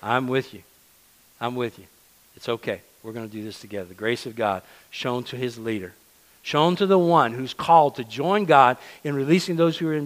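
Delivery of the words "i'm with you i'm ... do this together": soft, gentle and comforting; calm a frightened friend, quietly; God reassuring Moses, softer and gentle; tender reassurance. Retold or imitated. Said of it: "God says".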